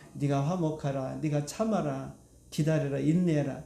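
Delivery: low, composed voice of God. Acted. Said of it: "그럼 누구 말이겠습니까?". (낮고 차분한 하나님의 음성)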